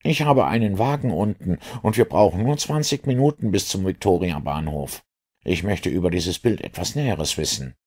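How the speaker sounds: high-pitched inspector voice; inquisitive inspector. Acted. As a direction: probe curiously in a high inspector's voice. Inspector's figure voice in story. (neugieriger Inspektor mit hoher Stimme)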